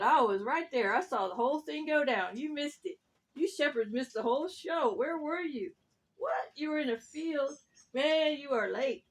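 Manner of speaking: a touch of scolding, lively rooster; animated, mildly indignant rooster; lightly voiced cocky rooster. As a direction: lightly play a rooster telling off latecomers. Rooster in story.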